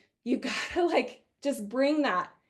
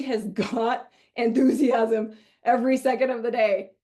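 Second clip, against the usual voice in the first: Roxanne alter ego; 3 semitones lower, 4 dB louder than usual. Shown as a demonstration. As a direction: slip into a bold alter ego persona. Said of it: "come up with, like, an alias".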